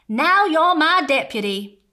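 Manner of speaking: put-on name the child deputy proudly; Sheriff Parr proud. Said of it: "he said".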